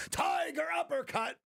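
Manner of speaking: high-pitched hammed-up fighting-game shout of the move name; mock battle cry. Streamer voicing his wife's sleepy punch as a game attack, hammed-up high cry. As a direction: yell it like a cartoon fighter landing a special move. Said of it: "She'd go".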